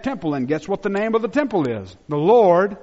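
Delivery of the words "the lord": preacher's loud proclamation; proclaimed. Real, not acted. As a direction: ring out the name, louder. Revealing the temple's name.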